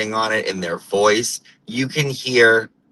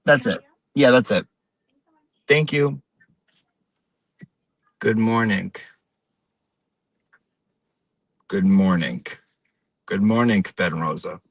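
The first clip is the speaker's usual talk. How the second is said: put-on old-school Portuguese-American accent, hard word endings; everyday small talk in a light Portuguese-American accent; imitated Portuguese-American neighbourhood woman; 2 semitones lower than usual. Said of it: "if you're Portuguese, it's very close".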